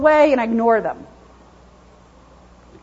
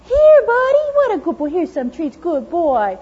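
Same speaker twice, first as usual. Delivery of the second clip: coaxing dog praise; 4 semitones higher than usual. Retold or imitated. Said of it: "the good stuff comes out".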